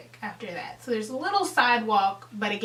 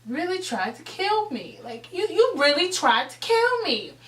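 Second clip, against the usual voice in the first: retold stunned accusation; 6 semitones higher than usual. Stunned girl accusing friend.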